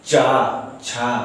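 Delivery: चा छा said with the tongue on the palate; demonstrated palatal sounds. Shown as a demonstration. Teacher demonstrating palatal sounds for the students. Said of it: "अब आप भी बोलिए".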